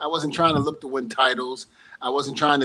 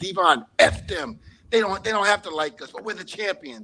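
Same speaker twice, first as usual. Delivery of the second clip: keyed-up, high-pitched, mild half-yell; 6 semitones higher than usual. Retelling what Edge screamed after grabbing the titles: imitating Edge screaming. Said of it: "Edge is screaming down there".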